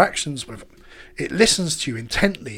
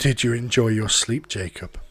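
creepy AI voice; 5 semitones lower than usual. Acted.

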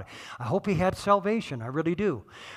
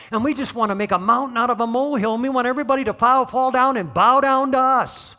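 rising preacher fervor; 3 semitones higher, 4 dB louder, faster than usual. Real, not acted. Preacher building to a climax.

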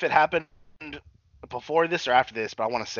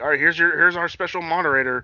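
mock announcer; 4 semitones higher, 5 dB louder than usual. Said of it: "that Me Too guy announced".

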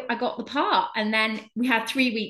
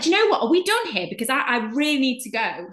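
impatient; 4 semitones higher than usual. Retold or imitated. Fed up, wants to leave.

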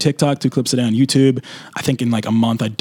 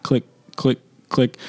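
metronome clicks; slower than usual. Retold or imitated. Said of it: "And I just hear click".

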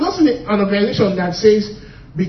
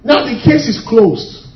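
firm verdict; 3 dB louder, slower than usual. Shown as a demonstration. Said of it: "I wish you could, you could reduce it a bit".

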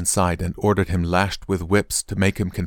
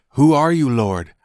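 higher, louder opening that drops on Lord; startled questioning; 5 semitones higher, 4 dB louder than usual. A narrator's reading. Saul asking the voice from heaven who it is, startled questioning. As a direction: ask it as a startled plea.

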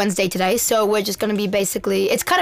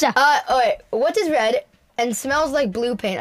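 put-on amateur Aussie accent; Australian accent. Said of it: "I'm out of my accent now".

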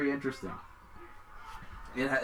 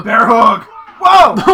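excited shout; 9 semitones higher, 19 dB louder, much slower than usual. Real, not acted. Watching wrestling, excited shouting.

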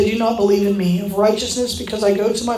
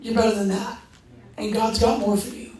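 softer, gentle encouragement; voice of love; 5 dB quieter than usual. Retold or imitated. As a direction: reassure them lovingly, dropping the volume. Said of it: "it's the voice of love that says".

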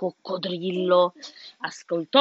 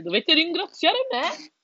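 hippo voice; 8 semitones higher than usual. A narrator's reading. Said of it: "l'ippopotamo dice".

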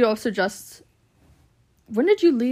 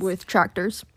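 laughing; 3 semitones lower, 3 dB quieter, much slower than usual. Real, not acted. Laughs at friend's joke.

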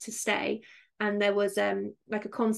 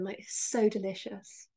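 mocking wistful; 4 dB quieter than usual. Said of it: "really wistful then".

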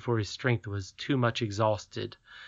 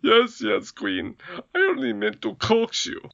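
higher, pleading whimper; meek goblin king; 11 semitones higher, 4 dB louder than usual. A narrator's reading. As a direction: plead meekly to placate her.

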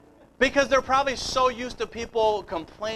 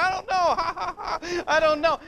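giggling through the words, high and slow; imitating his wife laughing for no reason; 8 semitones higher, slower than usual. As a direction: laugh helplessly while answering. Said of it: "She started laughing 'cause I was laughing".

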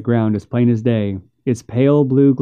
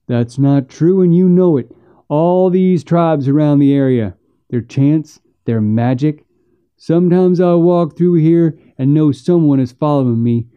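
lightly voiced rattled backwoodsman; spooked, insistent brother; 3 semitones higher, 3 dB louder than usual. Rattled brother insists ghosts exist.

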